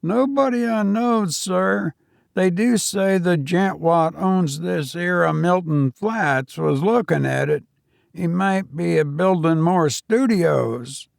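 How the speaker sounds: put-on a nervous young servant answering his master; young Cockney servant. Servant Thomas speaks, Cockney.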